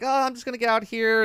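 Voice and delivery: high-pitched imitation of a freaked-out old lady; mock fluster, pitched well up; retold alarm. Voices old lady fleeing elevator.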